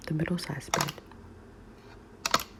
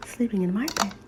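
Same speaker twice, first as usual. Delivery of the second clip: put-on much higher and louder, a squealing baby voice; Little Bear squeaks loudly at Goldilocks in his bed; squeaky baby bear; 7 semitones higher, 4 dB louder, faster than usual. A narrator's reading. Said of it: "small, squeaky, baby voice".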